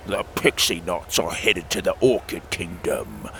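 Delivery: low, croaking toad voice. Acted. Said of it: "Timothy croaked".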